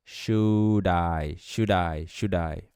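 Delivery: "Should I" said "shurai", the D as a quick tap; D as a flapped R. Shown as a demonstration. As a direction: repeat "Should I" linking the D like an R. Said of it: "Como se fosse um R". ("Should I" com som de R no D)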